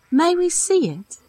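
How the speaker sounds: calling up. Acted. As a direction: speak up for a deaf woman. Calling to deaf woman.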